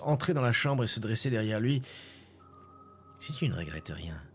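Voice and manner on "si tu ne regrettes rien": low, cold and still; icy voice. A narrator's reading. The green spectre speaks to the boy from behind, low and icy. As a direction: breathe it out like a ghost. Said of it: "souffla une voix glaciale, impassible".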